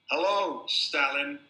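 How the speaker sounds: put-on loud, taunting drunk greeting; drunk provoking. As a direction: goad him into a fight. Drunk picks a fight.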